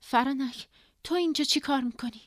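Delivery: calling out. A narrator's reading. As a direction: call across to a friend in puzzlement.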